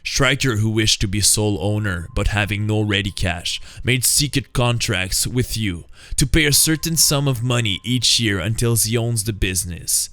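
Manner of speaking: the hero unmasking the villant's plot; Batman explaining. Acted. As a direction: lay out the crime calmly.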